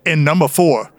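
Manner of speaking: lightly voiced Southern accent reading ratings; a hint of a Georgia Southern accent. Reading beer ratings for a Georgia brewery in a light Southern accent. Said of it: "please give us your deep Southern accent".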